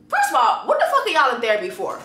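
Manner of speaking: high-pitched, fast, incredulous restart; exasperated outburst. Real, not acted. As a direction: spit it out fast in disbelief.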